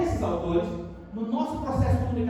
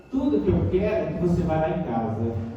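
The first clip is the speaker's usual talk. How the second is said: ironic; 5 semitones lower than usual. Shown as a demonstration. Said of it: "É uma fala irônica".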